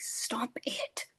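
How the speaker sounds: whispered stop. Retold or imitated. Girl hushing her tugging sister, whisper. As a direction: cut her off without a sound.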